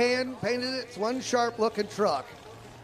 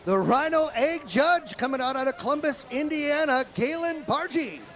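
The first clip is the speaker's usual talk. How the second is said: rising arena intro call; tractor pull announcer; 4 semitones higher than usual. Real, not acted. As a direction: announce the puller to the crowd.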